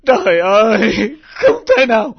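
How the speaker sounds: crying out in despair; a father despairing over the truth, sobbing; anguished sob. Acted. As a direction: sob it, beaten by the news.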